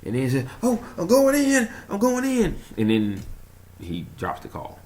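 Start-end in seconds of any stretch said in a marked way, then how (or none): 0.6-2.6 high, loud imitation of a doomed pilot; mock panicked cry. Retelling the pilot's last call, high panicked cry.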